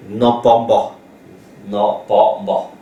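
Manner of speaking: NON, PAS, then MBA as one sound; teacher's deliberate syllable drill on MBA; blending demo repeated. Shown as a demonstration. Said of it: "le B s'écrit avec non pas mba".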